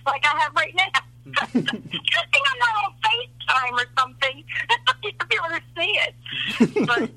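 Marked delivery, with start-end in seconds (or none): 1.5-6.9 slow, laugh-broken joke; laughing through words. Real, not acted. Grandmother joking to grandson about her tears, laughing. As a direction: laugh at yourself while talking.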